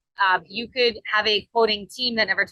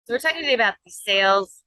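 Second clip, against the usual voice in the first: put-on Canadian accent with a rounded proh-cess; 3 semitones higher than usual. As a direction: say process the Canadian way. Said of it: "if I'm gonna put my Canadian voice on".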